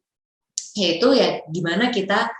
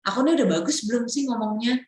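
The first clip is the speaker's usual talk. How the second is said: eager call to a friend, then rushing the question; coaxing a friend to listen, quick; asking a friend; 3 semitones higher, faster than usual. Retold or imitated. Speaker asks a friend for feedback, eager and quick. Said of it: "minta teman kita".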